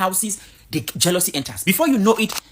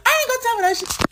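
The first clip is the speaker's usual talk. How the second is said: squeaky-high mock Black American accent; very high, exaggerated Black American accent; imitating Black American accent. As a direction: push the Black American impression into falsetto. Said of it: "they have this accent".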